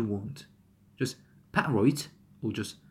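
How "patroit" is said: "patroit" as pa'-roit, catch after pa; first T glottalized. Shown as a demonstration. Teacher showing one option for two Ts, glottal first T. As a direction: stop the first T of "patroit" in the throat. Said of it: "One of them?".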